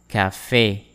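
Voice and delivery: Café modelled carefully, falling onto a closed é; careful pronunciation model. Shown as a demonstration. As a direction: say Café for learners to repeat. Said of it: "practice how to pronounce these words".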